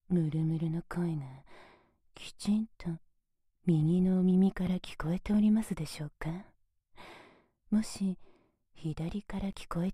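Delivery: whispered close into the right ear. Acted.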